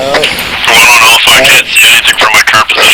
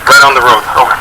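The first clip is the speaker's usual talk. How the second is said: calm radio call for fire. Real, not acted. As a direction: read the grid steadily over the net.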